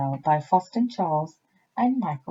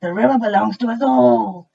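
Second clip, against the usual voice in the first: friendly crocodile; 3 semitones higher, 7 dB louder than usual. A narrator's reading. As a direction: boom a welcome like a reformed crocodile. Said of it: "he said".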